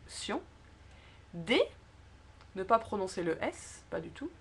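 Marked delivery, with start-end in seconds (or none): 0.1-0.4 "sion" set apart with a rising end; tonic stress. Shown as a demonstration. Teacher pointing out the tonic accent, stress on "sion". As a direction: lean on "sion" as the stressed final syllable. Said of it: "l'accent tonique".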